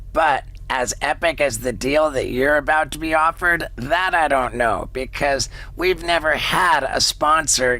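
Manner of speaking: upbeat sponsor read, slowing on the offer. Acted. Host pitching a cat food deal to listeners, ad read. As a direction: sell the deal, lean on the code.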